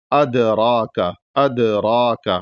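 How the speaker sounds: ادراک with a full, heavy ra. Shown as a demonstration. Teacher demonstrating heavy ra. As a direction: thicken the ra in ادراک. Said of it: "را ... موٹا پڑھا جائے گا".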